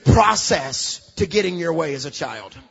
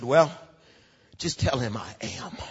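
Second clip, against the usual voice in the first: God answering Moses; 9 semitones lower than usual. Retold or imitated.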